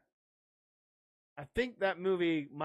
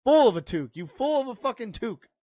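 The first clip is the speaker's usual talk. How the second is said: mock scolding quote; 6 semitones higher, 6 dB louder, faster than usual. Acted scolding quote from the film.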